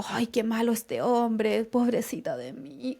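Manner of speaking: slow, half-whispered poor-me whine; hammed-up sorry-for-myself sigh; mock self-pity. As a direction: play the pitiful victim, drawn out. Mocks self-pitying victim stance.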